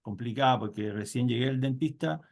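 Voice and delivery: talking with a numb mouth; anesthetized mouth, words a bit slurred. Real, not acted. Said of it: "Tengo la boca anestesiada".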